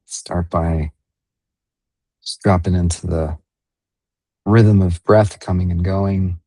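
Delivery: unhurried meditation guide, long pauses between phrases; guided meditation. Real, not acted. Meditation leader guiding listeners into breath and body awareness, guided meditation. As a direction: ease them gently through the breathing, leaving space.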